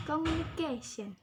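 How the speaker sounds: "Communication" with CA emphasized, then a fall; stress on CA. Shown as a demonstration. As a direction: model "Communication" with a clear KAY beat. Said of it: "The stress at the K".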